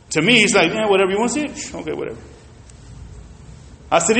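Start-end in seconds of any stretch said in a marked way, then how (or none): 0.7-2.2 unenthusiastic salesman. Retold or imitated. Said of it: "his excitement level is not up".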